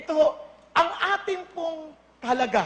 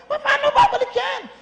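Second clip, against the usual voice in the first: laughing mock question; 10 semitones higher, 5 dB louder than usual.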